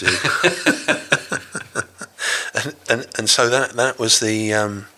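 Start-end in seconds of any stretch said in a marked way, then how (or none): 0.2-2.5 loud real laugh, higher up. Real, not acted. Guest laughing off the marmalade sandwich teasing. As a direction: laugh at yourself.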